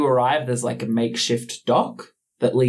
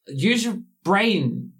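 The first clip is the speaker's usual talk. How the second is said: slow, higher voice of Death; grim reaper voice; 7 semitones higher, slower than usual. Acted. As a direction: scold slowly as Death. Death voice continues.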